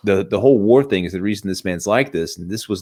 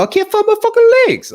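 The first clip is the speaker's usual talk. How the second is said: imitating an anguished, much higher yell; Rambo breaking down; 7 dB louder than usual. Broken soldier crying to his colonel, mock anguished yell. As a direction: crack the voice wide open like a man falling apart. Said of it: "You can see Stallone, he's totally broken".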